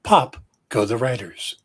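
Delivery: low, hushed golf announcer voice; golf commentator. Pretend. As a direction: hush it like a golf broadcast. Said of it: "thrown off by my golf voice".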